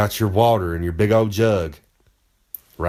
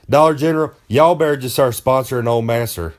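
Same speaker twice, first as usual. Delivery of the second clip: calling out. Acted. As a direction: hail "Dollar General" like you're shouting across the store. Calls out to the store for sponsorship.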